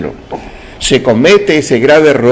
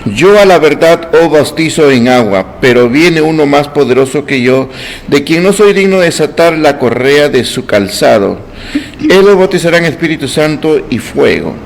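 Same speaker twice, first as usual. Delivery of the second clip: measured, formal Bible reading; scripture reading; 2 semitones higher, 3 dB louder than usual. Acted. Preacher reading scripture to the church, formal and measured. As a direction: read the verse out to the congregation. Reads Bible passage aloud.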